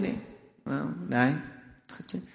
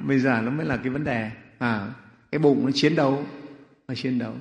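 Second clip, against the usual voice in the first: usual speaking voice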